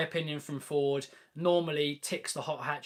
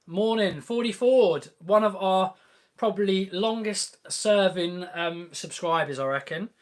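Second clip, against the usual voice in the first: mock Aussie accent, higher and louder; jokey put-on Australian accent for a viewer; 3 semitones higher, 6 dB louder than usual. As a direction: have a cheeky go at an Australian accent. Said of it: "was that a good accent?".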